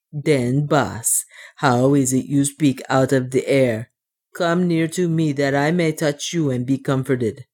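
put-on lightly accented dwarf questioning his master; earnest, slightly foreign-sounding dwarf voice; puzzled dwarf. Otter asks the voice from the air to come near, puzzled dwarf voice.

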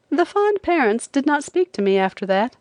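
usual speaking voice

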